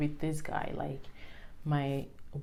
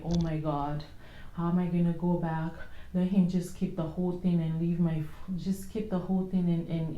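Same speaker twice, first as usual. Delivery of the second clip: retold panicked crying. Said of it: "I was screaming like".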